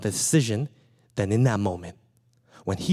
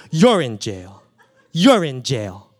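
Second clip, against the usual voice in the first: laughing; 9 dB louder, slower than usual. Real, not acted. Repeats it, laughing.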